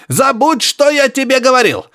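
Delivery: high grunting exclaim through static; grunting professor. Acted. Professor protesting to Harry over radio, high grunting. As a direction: squeal it out like a grunting old man. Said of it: "оборвал Барсуков".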